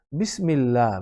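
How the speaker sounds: বিসমিল্লাহ with a thin, light lla; Quranic recitation. Shown as a demonstration. Teacher shows the light lla in বিসমিল্লাহ. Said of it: "আল্লাহ আল্লাহর মতো উচ্চারণ হবে".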